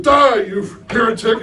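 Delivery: a joking pastor's over-the-top angry shout; mock furious yell. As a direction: bellow it like a fanatic condemning a heretic. Punchline of joke, pastor yells.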